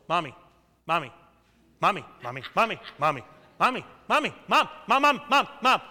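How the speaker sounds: put-on whiny nagging child. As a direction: nag like a kid who won't stop, rising each time.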